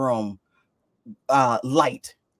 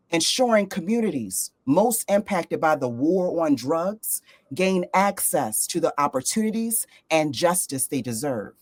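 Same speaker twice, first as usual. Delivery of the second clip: measured, clearly phrased bio read; formal guest introduction. Real, not acted. Host introducing a guest to listeners, formal read. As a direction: present the guest with deliberate pauses.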